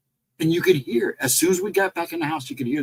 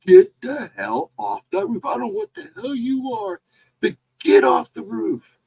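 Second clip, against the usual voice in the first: retold angry yell; 10 semitones higher, 3 dB louder than usual. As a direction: imitate an angry man ordering someone off. Retold man yelling at roof intruder.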